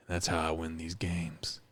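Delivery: whispered, hushed. Acted. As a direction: breathe it as a secret. Brooding whispered confession.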